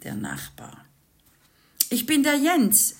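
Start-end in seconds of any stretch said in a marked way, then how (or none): 1.9-3.0 higher, louder friendly neighbor voice; new neighbor greeting the family, hearty voice; neighbor Jens. A narrator's reading. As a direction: introduce yourself as the chummy neighbor. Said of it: "sagte der Nachbar".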